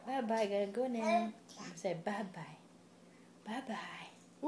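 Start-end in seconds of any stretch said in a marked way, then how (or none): 3.5-4.5 soft whispered bye-bye. Shown as a demonstration. Parent whispering bye-bye to the baby. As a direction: breathe the word bye-bye with no voice.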